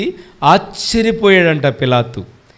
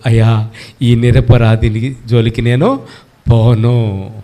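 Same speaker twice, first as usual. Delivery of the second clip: Pilate's refusal; 8 semitones lower than usual. Acted. Pilate voiced declining.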